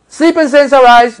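high, ringing call of the wrong kind of shout; mock shout. Shown as a demonstration. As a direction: belt it out like a proclamation. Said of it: "it's not gonna come like that".

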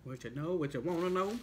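speaking between bites; talking while chewing. Real, not acted. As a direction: mouth partly full of food. Seen 1: Eats before; jaw and lip movements suggest chewing throughout speech.

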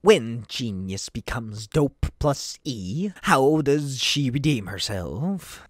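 lightly voiced villain posing a riddle; Riddler voice. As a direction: draw out the riddle slyly. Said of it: "Riddler reads riddle".

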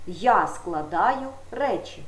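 Я stressed, slow Я складаю речі; slow example. Shown as a demonstration. Teacher giving pupils an example sentence, slow. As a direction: read the example slowly. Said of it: "Теперішній час".

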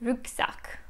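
Rucksack whispered with a German u and k; German pronunciation. Shown as a demonstration. Teacher tries the German sound for viewers. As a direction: try Rucksack softly, the German way. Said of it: "just pronounced more like German".

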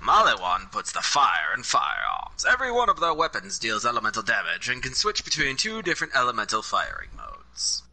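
reads the ad in posh British English; posh British accent. Pretend. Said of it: "you sound like a, like a posh British guy".

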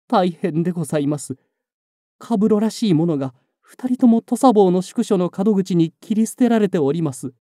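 breathless urgent report; gasping, hurried and high; out of breath. A narrator's reading. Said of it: "女は息を切らせ".

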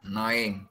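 annoying said slowly with the ending through the nose; slow nasal model. Shown as a demonstration. Teacher correcting a student's annoying, slow and nasal. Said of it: "bạn phát âm annoying bằng cái đường mũi".

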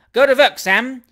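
high, loud cheer from the crowd; shouted egging-on. A narrator's reading. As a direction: yell it to egg on a fighter. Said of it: "shouted half a dozen hackney coachmen".

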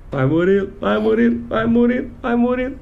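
cheering on, building up; rising cheer. Real, not acted. Cheering the son on.

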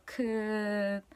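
끝 said slowly, tense aspirated kk and clipped final t; slow careful 끝 demo; pronouncing 끝. Shown as a demonstration. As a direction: draw out 끝 carefully. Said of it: "끝 is like 끝".

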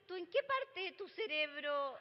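exasperated scolding mother. Retold or imitated. Mother scolds daughter in story.

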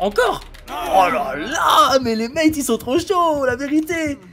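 high, loud, drawn-out amazed outburst; stretched high "oh là là", shouted; excited shout. Real, not acted. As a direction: cry out in amazement at your teammates. Thrilled by teammates' repeated play.

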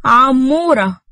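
high, coaxing pet name; coy and pampering. A narrator's reading. Nour coyly calls Amer by a pet name. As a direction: sweet-talk him with his pet name. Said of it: "وقالت بدلع".

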